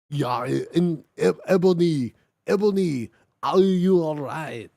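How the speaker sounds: a touch of worry, lightly voiced; understated worried boyfriend. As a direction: ask her gently with mild concern. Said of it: "asked Draco in a worried voice".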